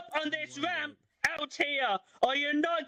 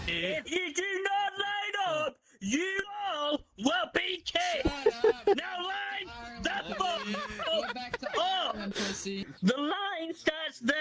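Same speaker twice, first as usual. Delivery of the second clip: bossy bouncer; 4 semitones higher, slower than usual. Acted. Bouncer ordering queue.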